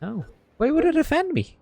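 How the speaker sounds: sharp leap up into a high, sweet voice; creepy innocent girl. Acted. Ghost girl feigns innocence.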